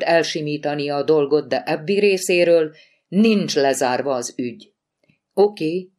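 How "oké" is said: perking up. Acted. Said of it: "élénkült fel Lori".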